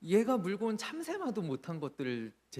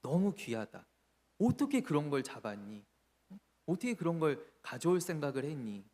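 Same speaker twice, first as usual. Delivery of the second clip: fond praise. Acted. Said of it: "귀하게 여겨주시는 거예요".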